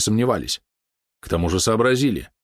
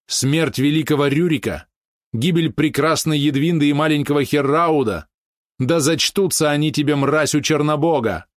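high, raised and bitter cursing; furious curse; 7 semitones higher than usual. Acted. Sister curses her brother for the killings, high and furious. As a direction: spit every charge at the traitor.

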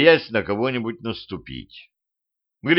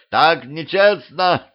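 indignant yell; 6 semitones higher, 3 dB louder, slower than usual. Acted. Гриша protests loudly.

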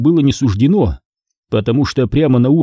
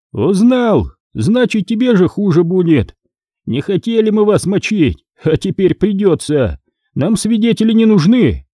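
higher, menacing threats to the boss; menacing bandit; 7 semitones higher than usual. Acted. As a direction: spit out the threat like a thug. (бандит угрожает повышенным голосом)

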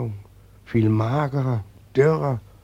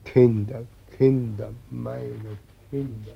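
put-on weeping old man; 3 dB quieter than usual. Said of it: "Lass ihn, heul nicht".

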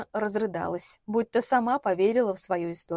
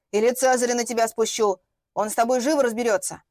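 louder, threatening neighbour; menacing scold, raised voice; barking threat; 2 semitones higher, 4 dB louder than usual. Acted. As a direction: bark threats at the intruder. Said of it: "и рявкнула".

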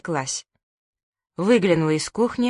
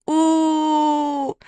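high drawn-out wail; whimpering wail; 9 semitones higher than usual. Acted. Manya lying on the floor, high pained wail. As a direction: keep wailing from the hurt.

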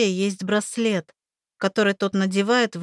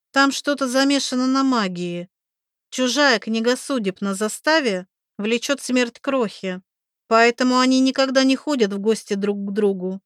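put-on young woman voice; 3 semitones higher than usual. Oksi explaining.

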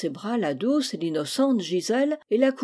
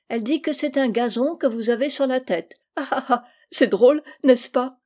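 high, loud, sly girlish voice full of mock apology; cheeky little girl; 4 semitones higher, 5 dB louder than usual. Gisèle teases the old friend about his wig, a loud high cheeky child. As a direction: play the spiteful child pretending to be sorry, pitch up.

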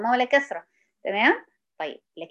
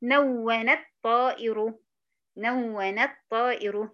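نون الطائر said slowly, the nun stretched; slow example; much slower than usual. Shown as a demonstration. Teacher giving نون الطائر slowly as an example. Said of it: "زي ما مثلًا بنقول إيه؟".

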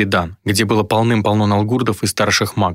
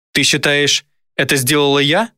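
higher, astonished voice rising at the end; high-pitched incredulity; incredulous question; 5 semitones higher than usual. A narrator's reading. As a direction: ask in wounded disbelief. Dayna disbelieves the accusation.

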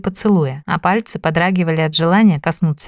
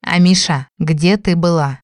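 calmer. Acted. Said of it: "чуть спокойнее спросил Дим".

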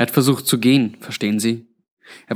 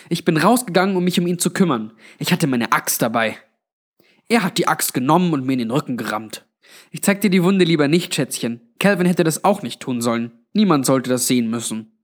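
higher-pitched Granny telling her story; lightly voiced Granny, recounting; 4 semitones higher than usual. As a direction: recount it as Granny, phrases starting high. (leicht gespielte Granny, erzählend mit höherem Einsatz)

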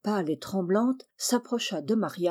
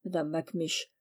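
ordinary delivery, nothing marked

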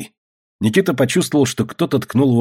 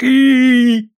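high, loud bellowed cry; roar; 14 semitones higher, 6 dB louder than usual. A narrator's reading. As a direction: let out a roar. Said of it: "взревел Никита".

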